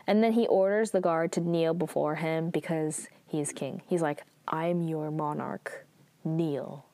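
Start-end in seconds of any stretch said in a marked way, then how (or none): 4.5-6.9 low, hushed royal order; whispered command. Acted. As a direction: whisper the command with quiet authority. King commands guard to kneel.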